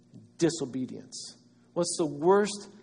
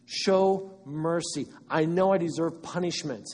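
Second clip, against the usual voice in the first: pleading; 2 semitones higher, 3 dB louder than usual. Acted. Pleading voice of sinner.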